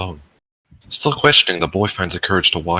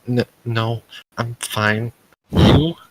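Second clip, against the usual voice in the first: high nervous stammering reply; flustered stammer; 7 semitones higher, much slower than usual. Acted. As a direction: stumble over it, flustered and high.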